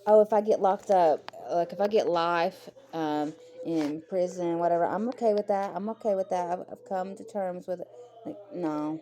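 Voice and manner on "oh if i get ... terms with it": mocking quote. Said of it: "she was like".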